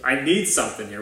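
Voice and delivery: a retold panicked plea, rushed and pleading; panicked prayer. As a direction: pastor replays his meltdown prayer to God, anxious and pleading. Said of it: "I just freaked out".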